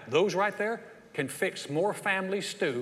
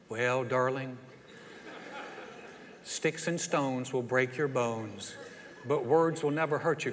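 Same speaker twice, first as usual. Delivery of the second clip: slow, lower mock-comforting voice; soothing parent; 4 semitones lower, 5 dB quieter, slower than usual. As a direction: console a child with an old saying. Acts a parent soothing the child.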